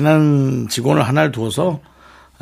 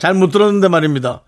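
soldier's report, a touch higher; korean military style; 4 semitones higher than usual. Shown as a demonstration. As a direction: report politely like a private. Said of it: "아니에요?". (말입니다 군대 말투)

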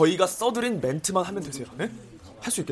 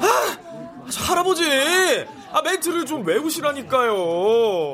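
exasperated; 6 semitones higher than usual. Real, not acted. Director exasperated with actor.

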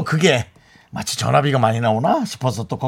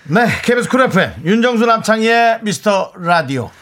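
station ID call; 5 semitones higher, 3 dB louder than usual. Acted. Station ID call after song.

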